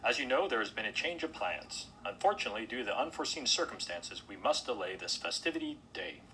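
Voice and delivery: lightly voiced official announcement; formal hotel host. Host telling guests the festivity is delayed, formal announcement. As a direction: deliver bad news formally to a crowd.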